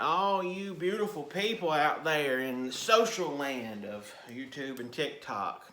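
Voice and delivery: loud, high, energetic welcome to the viewers; big hyped greeting. Real, not acted. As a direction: shout a cheery hello to the whole audience. Youtuber's big opening greeting.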